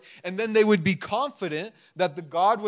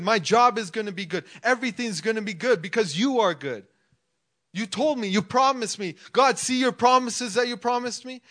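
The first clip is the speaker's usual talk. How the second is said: impatient pleading; 3 semitones higher than usual. Retold or imitated. Believer impatiently reminding God of His promises, mildly insistent. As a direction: remind Him of His promises, a touch exasperated. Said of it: "we get so impatient".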